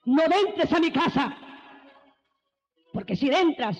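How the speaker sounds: high, sharp banishment ending in a cry of vete; mother casting him out. Retold or imitated. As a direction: drive him from the house. Madre expulsa al hijo. (madre que echa al hijo, con un vete agudo)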